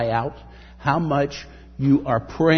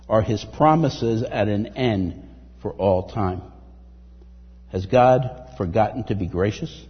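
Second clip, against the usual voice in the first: scripture reading. Acted. Reads psalm.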